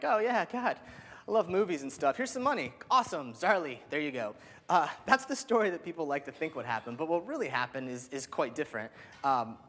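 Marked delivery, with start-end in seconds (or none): 0.0-4.3 higher-pitched, lightly mocking casual investor; breezy imitation of an easily won-over backer; Ashton Kutcher. Celebrity investor casually handing founders money, lightly mocked. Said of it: "Ashton Kutcher happened to show up and was like".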